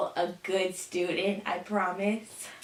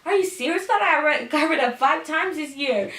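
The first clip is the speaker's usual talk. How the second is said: mock disbelief; 7 semitones higher, 4 dB louder than usual. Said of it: "I'm like".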